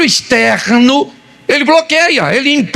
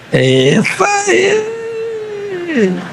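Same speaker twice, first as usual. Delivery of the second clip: long high swooping cheer; sing-song high crow of approval; drawn-out whoop; 9 semitones higher, much slower than usual. Real, not acted. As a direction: stretch it out high, then let it fall. Drawn-out high cheer, no cause named.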